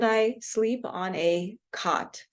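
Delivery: slow demo, COT with an open 'ah' like caught; merged vowel. Shown as a demonstration. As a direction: COT said as "kaht", drawn out for show. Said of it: "those would be pronounced exa".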